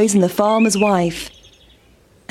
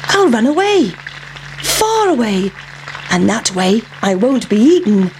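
a bright idea in a squeaky voice; pancake's plan. A narrator's reading. Pancake planning to run away, squeaky and pleased. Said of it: "thought the pancake".

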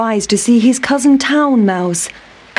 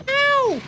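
high, soft yelp of pain; 6 dB quieter than usual. A narrator's reading. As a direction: yelp as you tumble. Mouse falls into wet grass.

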